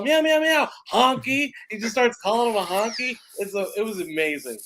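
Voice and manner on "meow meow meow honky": high meowing cat; mock cat meows. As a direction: meow like an angry cat, then spit out honky. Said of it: "the cat's all".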